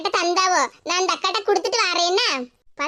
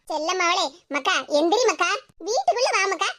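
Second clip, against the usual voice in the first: soft, low, sweet-talking mother; mother sweetly coaxing her sulking daughter; coaxing tenderly; 4 semitones lower, 3 dB quieter than usual. Acted. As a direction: coax her in gently, softer. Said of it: "பாசமா கூப்பிடுங்க".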